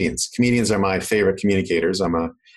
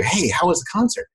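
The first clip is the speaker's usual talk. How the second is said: higher-pitched casual question; curious friend; 8 semitones higher than usual. Retold or imitated. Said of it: "someone will say to you".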